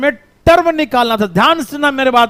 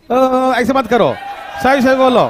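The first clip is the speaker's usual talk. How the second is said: scolding shout; 3 semitones higher than usual. Real, not acted. Scolding noisy student.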